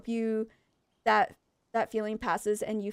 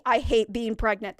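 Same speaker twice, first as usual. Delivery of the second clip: grumpy complaint; 5 dB louder than usual. Retold or imitated. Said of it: "It's gonna be like".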